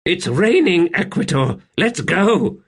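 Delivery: high, loud urging; urgent call. Acted. Buruk urging Seren in the rain, loudly calling. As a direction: push her to get moving.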